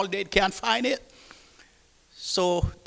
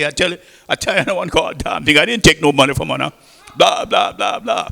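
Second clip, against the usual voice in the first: indignant protest; 2 semitones lower, 6 dB louder than usual. Retold or imitated. Accused cook protesting innocence.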